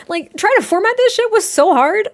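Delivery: exasperated laughing rant; laughing exasperation. Real, not acted. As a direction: vent with a laugh. Venting about formatting, laughing.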